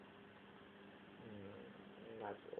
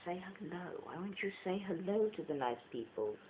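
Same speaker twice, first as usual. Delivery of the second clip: higher coaxing pet voice; talking to a pet; 6 semitones higher than usual. Real, not acted. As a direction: coax the cat to greet people. Talking to the cat.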